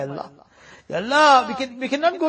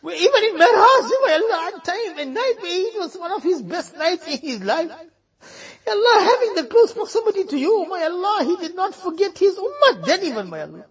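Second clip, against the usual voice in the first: higher, voice breaking into sobs; tearful pleading; 5 semitones higher than usual. Real, not acted. Preacher weeping over the Prophet's love for his ummah. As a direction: cry through the words.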